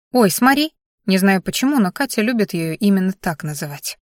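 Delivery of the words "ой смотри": put-on excited little girl. Child showing something eagerly.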